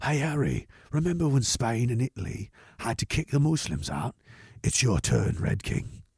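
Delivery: soft, breathy whisper. Reading out a chat message meant to be whispered: whispered tone. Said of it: "in a whispered tone".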